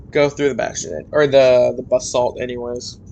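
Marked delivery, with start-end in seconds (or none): 1.7-3.0 "basalt" said "buh-SALT", stress on the second syllable; odd basalt pronunciation. Real, not acted. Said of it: "pronounced basalt as basalt".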